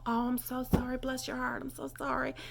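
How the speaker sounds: acted apology. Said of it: "or you bump into somebody".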